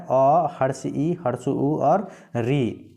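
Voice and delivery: अ, हर्ष ई, हर्ष उ, री said slowly one by one; slow, careful teacher listing of short vowels. Shown as a demonstration. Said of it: "अपेक्षाकृत कम समय लगता है".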